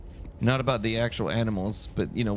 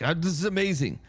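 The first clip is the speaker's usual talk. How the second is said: amazed gushing; 5 semitones higher than usual. Retold or imitated. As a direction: gush like a kid who found magic. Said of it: "I'm like".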